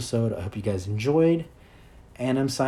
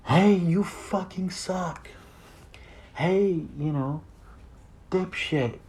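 higher, slow mock yell of a nasty inner voice; 8 semitones higher, much slower than usual. Anxiety's inner voice insulting him, in a mock yell. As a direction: sneer it like the voice of anxiety, pitched up. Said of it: "other voice yelling from the back of your head".

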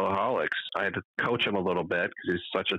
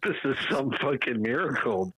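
laughing; 7 semitones higher than usual. Real, not acted. Laughing while describing.

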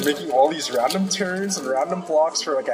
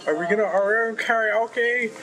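higher, lightly excited imitation of a friend; higher, mildly hammed-up enthusiasm; mock eager friend; 8 semitones higher than usual. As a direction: retell a friend's eager invitation, pitched up. Friend eagerly proposes karaoke, retold.

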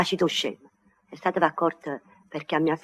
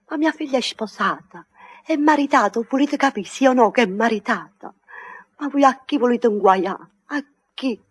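angry scolding; 3 semitones higher than usual. Acted. Mother angrily scolds the suitor.

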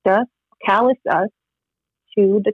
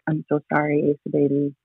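retold tearful apology; 3 dB quieter than usual. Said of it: "I was like".

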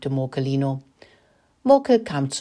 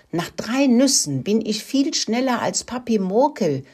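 put-on higher, lively child-mouse voice; piping mouse child; 7 semitones higher than usual. A narrator's reading. Mouse child boasting to sibling about nuts, piping. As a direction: pipe it up with lightly voiced pride. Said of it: "fiebte Mokelino".

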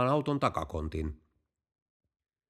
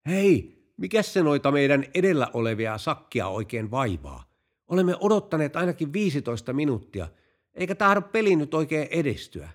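impatient complaint; 4 semitones higher than usual. Acted. Waiting golfers complaining to the owner, impatient complaint. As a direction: complain about the hold-up, pitched up.

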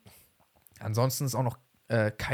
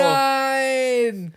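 loud, high drawn-out wail; dismayed no; 11 semitones higher, 7 dB louder than usual. Real, not acted. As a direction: wail a disbelieving no. Dismay that dish is Austrian. (lang gezogenes entsetztes Nein)

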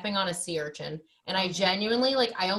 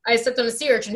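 louder, a bit higher plea; mock pitiful answer; 4 semitones higher, 6 dB louder, faster than usual. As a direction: say it like it's an emergency. Answering in ER retold.

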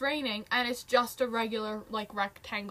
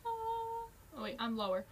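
trying a lower voice; much slower than usual. Pretend. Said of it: "harmonize the whole episode".

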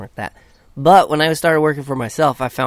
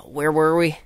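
sighing whisper; 3 semitones higher than usual. Real, not acted.

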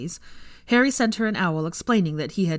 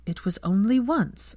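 pointed; 3 semitones higher, slower than usual. Acted. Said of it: "said Hermione pointedly".

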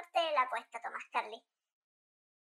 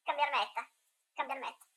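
voice effect; 5 semitones lower, 8 dB quieter than usual. Shown as a demonstration. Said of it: "Ocupar esta voz y de repente cambiarme".

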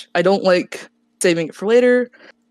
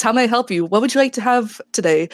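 perky, higher service-counter voice; sweet shop clerk greeting a customer; 3 semitones higher than usual. Pretend. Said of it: "This is my customer service voice".

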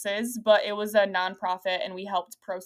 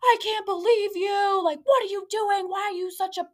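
retold screaming; 10 semitones higher than usual. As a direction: imitate someone screaming in outrage, voice pitched way up. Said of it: "this screaming".

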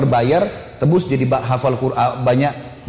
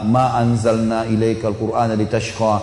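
recitation; 5 semitones lower, slower than usual. Acted. Membaca ayat surah Toha.

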